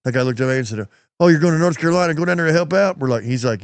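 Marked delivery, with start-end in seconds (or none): 1.2-3.0 louder, higher retold surprise; surprised trooper. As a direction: act out a trooper's pleasant surprise. Trooper learns of their relief trip.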